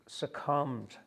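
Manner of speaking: measured poem recital, phrase by phrase; deliberate poetic delivery with weighted key words; poetry reading. Acted. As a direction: read your poem aloud to an audience, pausing between lines. Reads own poem aloud.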